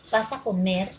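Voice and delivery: "¿Vas a comer?" as a light question lifting on "comer"; gently tip "comer" upward as a question; rising question intonation. Shown as a demonstration. Teacher asking a sample question, rising intonation. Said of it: "esto tiene entonación ascendente".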